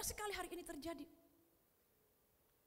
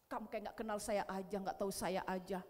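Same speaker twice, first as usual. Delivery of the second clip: mock Jesus reply; 7 semitones lower than usual. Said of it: "Apa kata Yesus? Apa begini?".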